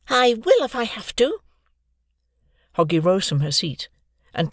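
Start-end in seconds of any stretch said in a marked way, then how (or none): 0.1-1.4 firm resolve. Acted. Girl standing up to bully.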